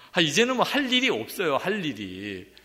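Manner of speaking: an elated cry that nothing is left to do; delighted exclaim. Real, not acted. Joyful exclaim to congregation.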